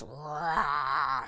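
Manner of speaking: playful toy dinosaur roar. A narrator's reading. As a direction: growl like a toy T. rex. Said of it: "said Brother as he battled".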